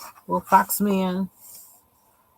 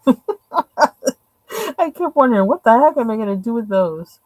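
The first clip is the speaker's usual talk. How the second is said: laughing while talking; amused, laughing through words; 5 semitones higher, 6 dB louder than usual. Real, not acted. Amused at weird twin bunnies.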